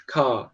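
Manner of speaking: "Car" ending in a long A, no R sound; British "Car", R left silent; British non-rhotic pronunciation. Shown as a demonstration. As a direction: drop the R at the end of "Car". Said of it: "Ele não pronuncia o R".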